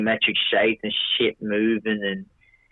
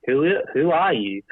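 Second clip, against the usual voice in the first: high, startled question; 5 semitones higher than usual. Retold or imitated. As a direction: ask it high and spooked. Quoting his reply to the voice.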